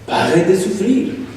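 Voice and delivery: put-on "Pare de sufrir" drawn out slowly like a TV church ad with an odd accent; slow mock ad accent. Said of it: "con acentos raros que dice".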